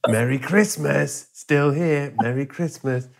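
slow, sing-song taunt; mock taunting wasp. Wasp taunting Lou at Christmas, slow and smug. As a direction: drag out a smug holiday greeting.

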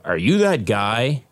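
slow, guarded recognition; deliberately unexcited. Retold or imitated. Phone agent asking a celebrity caller, unexcited. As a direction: ask it slowly, hiding any excitement. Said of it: "don't wanna come off as though they're, like, like, excited".

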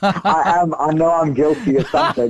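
nervous laugh through words; giggling while admitting guilt; laughing nervously. Real, not acted. Nervous laughing admission on air.

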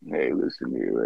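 low, hushed put-on agent voice; imitated agent on a call; phone persona. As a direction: drop deep and soft, playing a fake agent. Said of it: "I called, and I'm like".

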